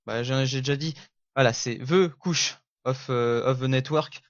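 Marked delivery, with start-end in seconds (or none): 1.8-4.2 slow, French-accented English; halting English in a heavy French accent. Real, not acted. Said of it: "Merci pour mon accent anglais".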